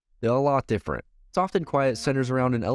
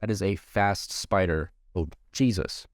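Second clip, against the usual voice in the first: screaming at a spider; 3 semitones lower than usual. Real, not acted. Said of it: "there's a spider on my wall".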